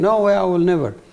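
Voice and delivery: put-on weeping through tears, tearful crying. Retelling a past refusal, imitating own past crying. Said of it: "I really was crying and, and, and saying".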